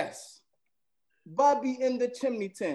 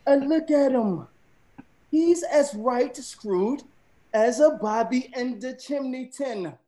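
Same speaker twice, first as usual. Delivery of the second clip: Jamaican accent; 3 semitones higher than usual. Shown as a demonstration. Using slang in a sentence for friends, light Jamaican accent. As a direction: lean into the Jamaican lilt. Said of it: "From Jamaica".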